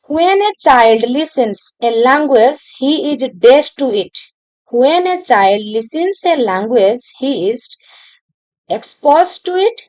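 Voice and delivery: reads the question out very slowly, word by word; slow dictation reading. Acted. Teacher dictating an exam question to students, very slow. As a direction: dictate each word so students can copy it.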